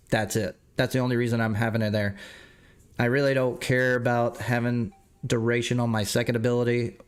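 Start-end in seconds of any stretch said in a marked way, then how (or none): 3.0-7.0 stuffy nose voice; talking through a blocked nose. Real, not acted. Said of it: "I am stuffed up today".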